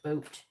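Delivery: "boat" standing in for Canadian "about"; "boat" with a rounded O, as in Canadian "about". Shown as a demonstration. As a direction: show the long Canadian O in "boat". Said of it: "It sounds like boat".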